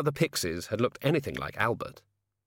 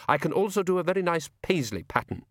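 raised voice of a touchy frost spirit; Jack Frost, resentful; 8 semitones higher than usual. A narrator's reading. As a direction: draw it out, higher, taking offence.

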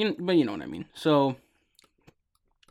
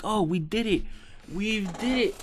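higher and higher, repeating the cheer; excited cheer; 7 semitones higher than usual. Retold or imitated. Players cheering on reaching the mountain top, rising excitement. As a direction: celebrate reaching the top, voice climbing.

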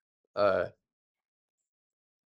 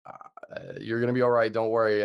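hesitant breathy uh, then louder forced reassurance; comforting, hiding the truth; 5 dB louder than usual. Retold or imitated. Friend hiding how bad the wound looks, forced comforting tone. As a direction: cover the worry with a firm comforting line. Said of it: "trying to comfort you rather than tell you".

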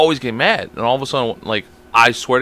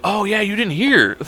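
slow, higher, through a laugh; laughing casual quote; 7 semitones higher, 3 dB quieter than usual. Retold or imitated. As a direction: toss it off while laughing. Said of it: "everyone's like".

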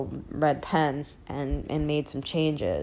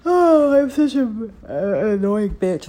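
mock self-scolding; 5 semitones higher, 10 dB louder than usual. Mocking herself right after singing.

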